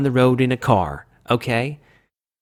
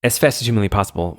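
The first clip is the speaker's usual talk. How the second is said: rapid-fire intro patter; hurried, running the words together; rushed talking; faster than usual. Real, not acted. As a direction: race through it as fast as possible. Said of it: "well, I'm talking so fast".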